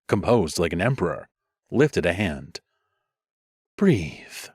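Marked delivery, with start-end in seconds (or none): 3.8-4.5 calm advice. Acted. Old dreams mage advising calm to quarreling leaders. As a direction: settle the table with one word. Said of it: "he advised".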